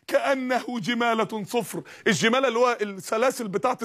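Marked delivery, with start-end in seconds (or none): 0.1-1.8 measured Quranic chant; slow Quran recitation. Acted. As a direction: draw out the verse slowly and solemnly. Verse recited slowly.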